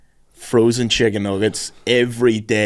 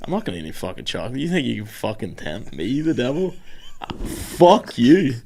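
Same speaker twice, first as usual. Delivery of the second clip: put-on defiant kid; 5 dB quieter than usual. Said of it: "and I was so like".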